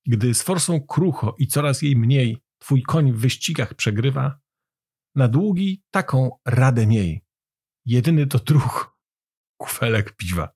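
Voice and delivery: measured verse, pausing after each line; poem recitation. A narrator's reading.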